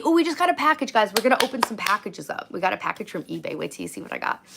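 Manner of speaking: high, chirpy unboxing host voice; mock unboxing vlogger. Mocking the store worker glued to her phone, chirpy host voice. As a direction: parody a hyped unboxing video. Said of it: "mocking YouTuber voice".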